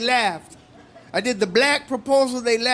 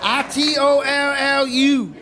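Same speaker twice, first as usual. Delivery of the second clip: spelled-out gloat; 4 semitones higher, slower than usual. Acted. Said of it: "This is my impression of a black proposal".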